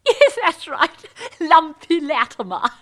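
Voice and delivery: loud, high, hammed-up delight; laugh, then hoot the old nickname; jolly reunion whoop; hearty recognition.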